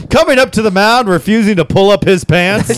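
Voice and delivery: high-pitched mock stadium introduction; mock announcer. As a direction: announce him to the ballpark, lightly hammed-up.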